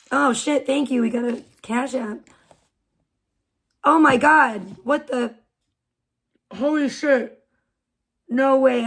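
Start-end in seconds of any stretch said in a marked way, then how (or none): 3.8-8.8 shocked surprise. Real, not acted. Surprise donation arrives live.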